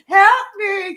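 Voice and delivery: high, loud, half-laughing wail; mock cry for help. Stuck girl calling to family, high laughing wail.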